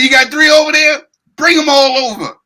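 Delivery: high-pitched, quick, greedy quote; mock eager demand. Mocking the boxer asking for all the drugs, mock eager. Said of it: "He said".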